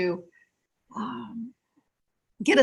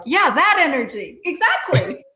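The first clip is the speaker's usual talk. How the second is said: mildly excited, rising higher; eager confirmation; 5 semitones higher than usual. Retold or imitated. Practitioner confirming the client's new feeling, eager. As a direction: re-enact pouncing on a breakthrough.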